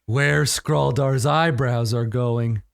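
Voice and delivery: slow, halting simpleton with mild regret; simple mourning brute. Acted. Skuna musing on the dead friend's eyebrows, slow mild sorrow. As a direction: puzzle slowly over a lost friend.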